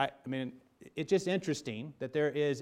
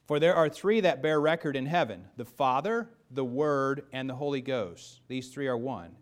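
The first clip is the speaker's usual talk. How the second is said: scripture reading; 4 dB louder than usual. Acted. Rereads scripture aloud.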